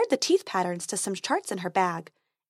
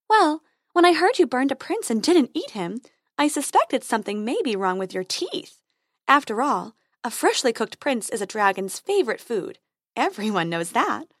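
fairy voice. Acted.

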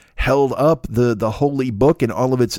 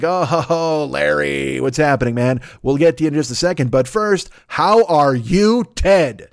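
hammed-up glad-handing; hearty mock greeting; slower than usual. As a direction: greet them like favored guests. Gatekeepers greet pope, then Ted.

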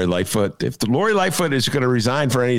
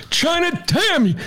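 Alex Jones impression. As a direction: rant like a conspiracy radio host. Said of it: "That's me imitating Dennis, imitating Alex Jones".

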